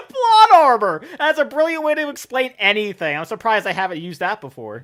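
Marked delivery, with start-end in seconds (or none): 0.0-3.2 high, loud, laughing exclamation; tickled, laughter in the voice; real laughter. Real, not acted. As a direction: burst out laughing, then settle as you talk. Cracking up at plot armor joke.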